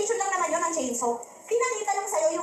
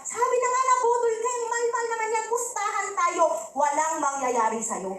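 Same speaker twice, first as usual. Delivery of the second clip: acted wife's indignant I-told-you-so, pitched up; raging wife; 4 semitones higher than usual. Wife berates husband for being duped, high indignant scolding. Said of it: "naghurumintado ngayon si Queenie".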